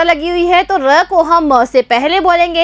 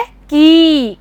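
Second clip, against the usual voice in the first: model answer. Shown as a demonstration. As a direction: call out की for the children. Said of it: "तो ये क्या बन गया है?". (बच्चों के लिए ज़ोर से की)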